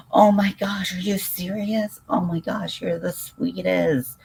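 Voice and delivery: overwhelmed, touched high-pitched gushing; thrilled squeal. Real, not acted. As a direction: squeal with real surprise and joy. Viewer offers to donate a dreamcatcher.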